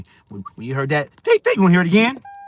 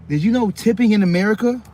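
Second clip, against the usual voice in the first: excited question; 8 semitones higher, 3 dB louder than usual. Real, not acted. Rhetorical quiz to viewers.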